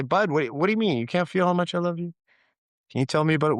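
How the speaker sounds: retold fatherly bafflement; puzzled dad. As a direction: imitate a dad gently taken aback. Acts puzzled dad questioning son.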